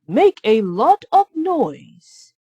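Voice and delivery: high, loud squeaky mouse alarm; a little mouse crying out in alarm; high, urgent cartoon mouse; Gus the mouse. Gus voiced.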